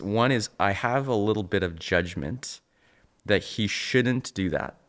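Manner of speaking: ordinary talk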